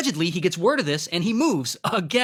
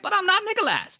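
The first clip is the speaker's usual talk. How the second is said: high, hammed-up fake English accent; mock fake English accent; 14 semitones higher than usual. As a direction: squeak it out in his phony English accent. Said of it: "he's still like".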